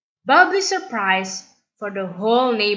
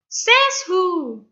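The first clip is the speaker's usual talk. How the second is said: much higher sharp retort; defiant challenge; 10 semitones higher than usual. Acted. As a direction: challenge the bully's boast. Bolan challenging.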